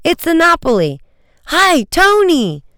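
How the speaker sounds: very high, loud hail across the water; excited hail, long stretched greeting; calling out. Acted. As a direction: call out happily to a passing friend. Calling to a friend's boat.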